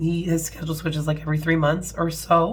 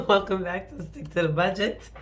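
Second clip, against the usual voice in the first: hoarse voice; 3 semitones higher than usual. Real, not acted. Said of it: "you can hear it in my voice".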